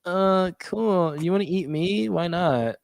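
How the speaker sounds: high, airy-light mock girl voice; Harley. Harley chatting with Killer Croc, high playful voice. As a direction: raise the pitch, playfully curious. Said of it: "Harley's talking with Killer Croc".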